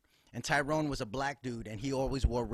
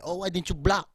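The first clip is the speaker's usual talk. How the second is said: dad scolding; 6 semitones higher, 7 dB louder than usual. Retold or imitated. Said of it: "he said".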